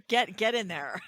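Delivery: laughing through the words. Real, not acted. To her co-host, joking about the robbery, laughing. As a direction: laugh as you say it, amused.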